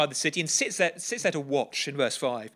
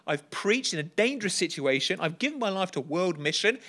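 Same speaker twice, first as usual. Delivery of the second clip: higher, aggrieved complaint listing sacrifices; self-pitying Jonah; 4 semitones higher than usual. Retold or imitated. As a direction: Jonah whining at God about his sacrifices. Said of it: "He's saying to God".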